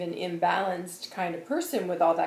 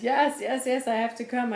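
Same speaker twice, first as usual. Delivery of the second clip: a touch of urgent eagerness, higher and louder; eager insistence; 6 semitones higher, 6 dB louder than usual. Retold or imitated. Jesus pushing in to speak to this one, eager. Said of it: "And he says".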